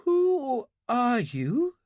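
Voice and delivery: put-on high, slow, trembling question from a frightened girl; shaking with fear. A narrator's reading. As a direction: ask it half-awake and scared, slowly. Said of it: "Her voice was shaking".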